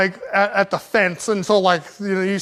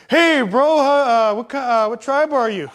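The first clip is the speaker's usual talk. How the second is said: higher, louder mock greeting, then hesitant; vagrant calling out; 4 semitones higher, 3 dB louder than usual. Vagrant outside the bar asking about his tribe, calling out. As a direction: hail a stranger, fumbling the question.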